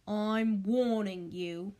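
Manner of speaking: slow, heavy menace; threatening uncle. Acted. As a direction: lean in and warn the boy. Vernon threatens Harry.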